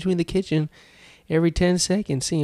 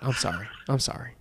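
mock apology; 3 semitones lower, 9 dB quieter, faster than usual. Apologising to the scale.

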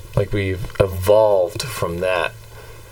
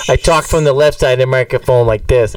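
Boston accent, a bit louder; Boston persona; 2 semitones higher, 3 dB louder than usual. Shown as a demonstration. Host showing his left-side persona, Boston accent. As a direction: show off the Boston voice. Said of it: "the Boston persona".

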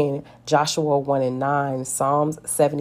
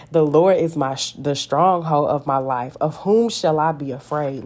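bold declaration; 3 dB louder than usual. Pretend. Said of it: "to say to my circumstance".

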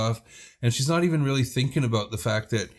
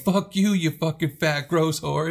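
mock drunken insult; 5 semitones higher, slower than usual. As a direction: fling the insult like a drunk brawler. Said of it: "And Handy's like".

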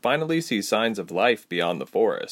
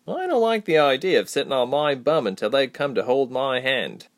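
higher-pitched, impatient companion; a hint of the restless friend, pitched up; lightly voiced Reshma; 5 semitones higher than usual. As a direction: grumble lightly in a raised character voice.

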